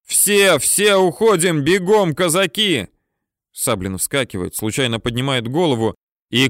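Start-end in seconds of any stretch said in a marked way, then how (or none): 0.0-2.9 high, loud shouted order; commander's shout. A narrator's reading. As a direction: urge the Cossacks to run, yelling. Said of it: "кричит в коммутаторе командир".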